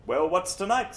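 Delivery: put-on a bored, irritated old playgoer snapping out of bed; Ned demanding what's on, mildly angry. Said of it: "says angry Ned".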